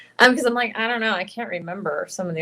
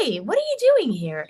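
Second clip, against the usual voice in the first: put-on slightly higher natural girl voice; your own voice, a bit higher; Himiko voice; 5 semitones higher than usual. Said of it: "her voice is really just my voice".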